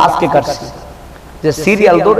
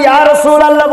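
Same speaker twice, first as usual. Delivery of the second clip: high, louder call of the name; raised invocation; 8 semitones higher, 4 dB louder than usual. Retold or imitated. Preacher retelling the barber shop, calling the name out high.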